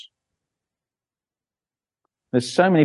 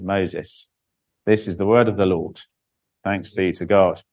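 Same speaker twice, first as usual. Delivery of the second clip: measured Bible reading aloud; formal church reading; scripture reading; 4 semitones lower than usual. A narrator's reading. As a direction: read it out as scripture to a congregation. Reads Bible chapter aloud.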